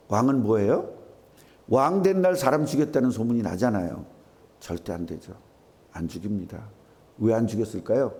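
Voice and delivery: usual speaking voice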